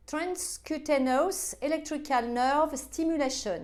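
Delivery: a French speaker's careful English accent, slow; devilish English accent. Shown as a demonstration. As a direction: read the English words out in your best English accent, playing it up as devilish. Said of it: "mon accent, euh, diabolique".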